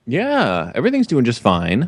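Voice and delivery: over enunciating. Pretend. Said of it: "Enunciating my words".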